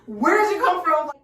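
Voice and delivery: retold fright. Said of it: "I'm scared".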